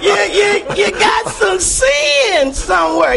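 talking through a gap in the teeth; lisping past a lost tooth; missing front teeth. Real, not acted. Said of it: "Y'all excuse my mouth. My tooth fell out".

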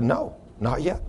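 soft, slow, hushed refusal; quiet, unhurried answer from the Spirit. Retold or imitated. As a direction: imitate a gentle inner voice saying wait. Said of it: "And the Spirit said".

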